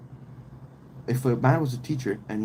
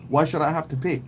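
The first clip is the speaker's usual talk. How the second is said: high, fast mocking girly voice; prissy mock of an entitled woman; 4 semitones higher than usual. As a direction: sneer it out quick and high. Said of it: "she's like".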